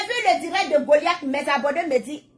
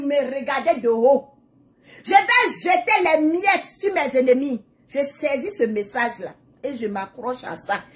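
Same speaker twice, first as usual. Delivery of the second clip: prayerful preaching. Acted. To her followers, declaring God protects her, preaching. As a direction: lean into the prayer, then rise up declaring.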